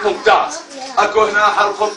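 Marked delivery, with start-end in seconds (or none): 0.0-0.6 praise. Real, not acted. Teacher praising child.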